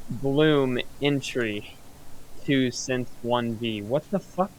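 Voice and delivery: muffled voice through the mic. Real, not acted. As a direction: talk as if behind a wall. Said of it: "You sound muffled".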